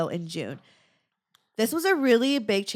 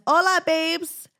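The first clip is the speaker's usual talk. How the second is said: playful excited greeting; 9 semitones higher, 6 dB louder, slower than usual. Pretend. Reading listener's greeting aloud.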